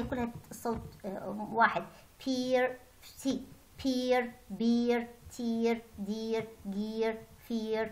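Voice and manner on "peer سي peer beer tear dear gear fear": word list with American R sounded at each ending; American R pronounced. Shown as a demonstration. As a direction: say "Peer", "beer", "tear" with a clear final R. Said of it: "أنا لفظت الراء على اعتبار أنه الأمريكان أكسنت".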